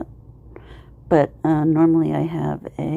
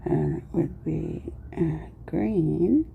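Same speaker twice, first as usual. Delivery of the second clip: talking with a marker in mouth; mumbling around a marker held in mouth; 5 semitones higher than usual. Real, not acted. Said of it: "now I have a marker in my mouth".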